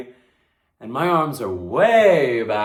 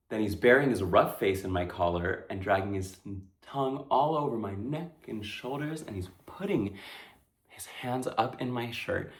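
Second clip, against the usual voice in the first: hushed dread; 3 semitones lower, 6 dB quieter than usual. Acted. Victim recounts assault, hushed.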